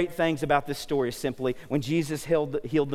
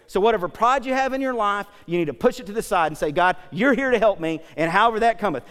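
raised, emphatic preaching voice; 5 semitones higher, 5 dB louder than usual. Acted. Preacher urging the congregation to drop their pride, emphatic preaching. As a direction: preach it with mounting insistence.

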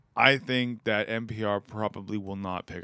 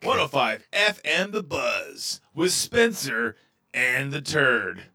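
radio announcer tag; 3 semitones higher, 5 dB louder, much slower than usual. Pretend. Radio station tag parody.

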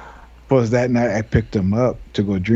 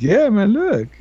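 mock cop; 12 semitones higher, slower than usual. Voicing cop showing wreck.

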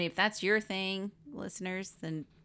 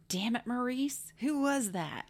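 imitating Fred Savage; 6 semitones higher than usual. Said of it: "Fred Savage says".

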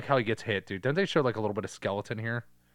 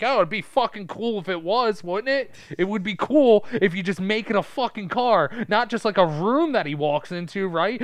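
higher, louder hyped-up pitch voice; mock excited writers; 9 semitones higher, 6 dB louder than usual. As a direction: play a pumped studio exec. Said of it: "and then they were like".

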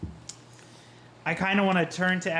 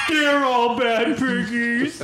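slow, higher, laughing through it; laughing mock scold; 6 semitones higher, 4 dB louder, much slower than usual. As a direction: tease them like a parent scolding pets.

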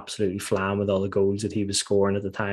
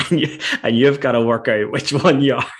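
mock Geordie manager; 5 semitones higher, 9 dB louder than usual. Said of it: "he had this real Geordie accent".

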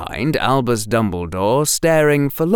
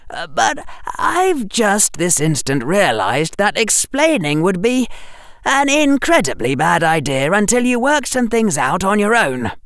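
put-on higher, hesitant boy; lightly voiced flustered boy; flustered Harry; 10 semitones higher than usual. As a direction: stumble over the apology.

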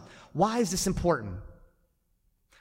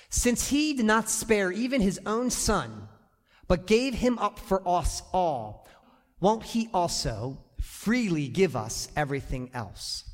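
scripture reading; slower than usual. Shown as a demonstration. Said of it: "The Bible says it like this".

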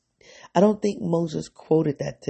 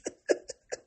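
tearful breathy laugh; 8 dB quieter than usual. Real, not acted. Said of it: "I'm irrationally crying right now".

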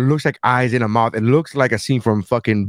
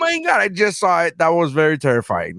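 mock horror. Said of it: "we're like".

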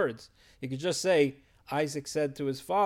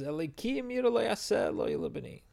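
Abraham's reply; 5 semitones higher, 6 dB louder than usual. Retold or imitated. Father answers his son gently but gravely, high and louder. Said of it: "and Avraham says".

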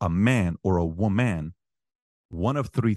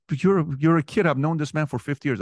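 dad pushing back; 6 semitones higher, 3 dB louder than usual. Retold or imitated. Dad voiced in argument.

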